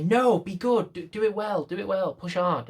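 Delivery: high, loud eager cheerleader; good inner voice. Retold or imitated. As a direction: urge yourself on like an angel on your shoulder. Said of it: "you have the other voice say".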